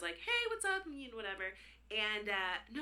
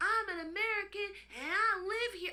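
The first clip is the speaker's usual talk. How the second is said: put-on scream, higher and louder; 11 semitones higher, 4 dB louder than usual. Retelling a neighbor screaming outside: imitating someone screaming.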